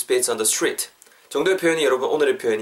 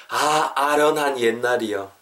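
wistful; slower than usual. Acted. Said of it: "그런 뉘앙스로".

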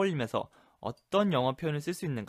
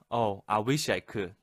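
slow, drawn-out "Oh, I wish I could"; regretful soft refusal; 2 semitones lower, 4 dB louder, much slower than usual. Shown as a demonstration. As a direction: gently turn them down, slowly. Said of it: "완곡하게 거절하고 있죠". (아쉬운 듯 천천히 완곡한 거절)

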